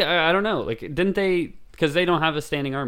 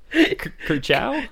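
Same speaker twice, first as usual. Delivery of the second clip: Lightning McQueen catchphrase; 10 semitones higher, much slower than usual. Retold or imitated. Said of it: "What does Lightning McQueen say".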